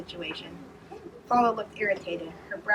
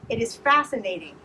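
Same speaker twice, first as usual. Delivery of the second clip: fascinating said louder and higher; 4 semitones higher, 6 dB louder than usual. A narrator's reading. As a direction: raise the voice on fascinating. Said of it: "he said louder".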